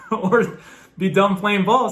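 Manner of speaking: laughing at his bleak options. Real, not acted. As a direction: chuckle the line out. Laughs about quitting baseball.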